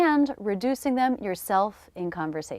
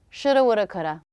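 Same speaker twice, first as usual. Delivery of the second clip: rueful phrase; faster than usual. Shown as a demonstration. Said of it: "Oh well".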